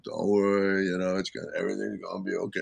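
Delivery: a lightly voiced calm Dave; reassuring Dave. Dave brushing off Annie's worry, softly reassuring. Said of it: "he's got that".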